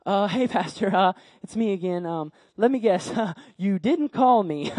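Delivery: lightly acted awkward chuckling boy; sheepish boy. Boy visits pastor a third time, sheepish. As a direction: guess the answer with a sheepish little laugh.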